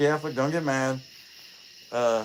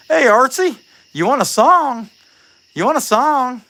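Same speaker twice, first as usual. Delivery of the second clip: high, loud call to the bird; sing-song call to a pet bird; 10 semitones higher, 9 dB louder than usual. Real, not acted. Calling out to bird.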